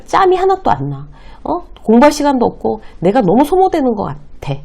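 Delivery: a junior complaining to a senior about salary and overtime, lightly fed up; venting junior. Retold or imitated. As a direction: play the frazzled junior pouring out worries. Junior venting about job choice.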